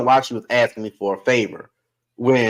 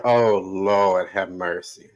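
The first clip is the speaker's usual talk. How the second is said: put-on wailing old woman; 8 semitones lower, 3 dB quieter, slower than usual. Great-grandma crying at the wake.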